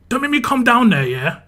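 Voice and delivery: high, loud warning; retold shouted threat. Woken resident threatens group below, angry shout. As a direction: yell a threat down to the street. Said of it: "I just shouted at them".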